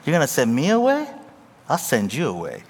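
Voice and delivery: hammed-up wife's retort; imitating wife. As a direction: play the outraged wife lightly. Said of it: "She'd be like".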